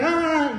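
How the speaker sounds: high mock yell, held back in volume; mock scream. Son imitating his mother's scream at home, restrained mock scream. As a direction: imitate mom's scream, kept small. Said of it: "mi mamá estaba gritando y dice".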